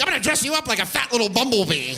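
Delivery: high-pitched gushing at a pet; gushing dog-owner talk. Acted. Owner to the dog dressed as a bumblebee, gushing.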